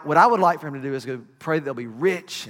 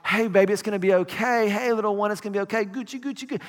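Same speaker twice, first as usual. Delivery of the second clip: put-on baby talk; 2 semitones higher, faster than usual. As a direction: coo to a newborn.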